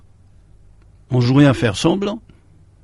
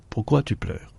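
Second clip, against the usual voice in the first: put-on soft child question; 6 dB quieter than usual. Child asks, ending poem.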